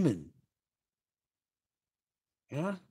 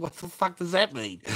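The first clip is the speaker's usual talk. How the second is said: retold shock; 8 semitones higher, 6 dB louder than usual. Own retold shocked question.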